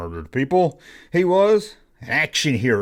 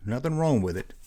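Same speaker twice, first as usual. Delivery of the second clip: quiet; 7 dB quieter than usual. Shown as a demonstration.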